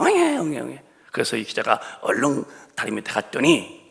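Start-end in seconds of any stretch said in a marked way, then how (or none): 0.0-0.8 baby crying imitation. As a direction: imitate a baby crying urgently under a bridge. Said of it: "다급하게 우는 아기가".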